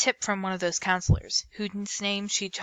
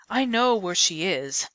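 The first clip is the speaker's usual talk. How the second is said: snapping; 4 dB louder, slower than usual. Acted. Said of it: "Stubbs snapped".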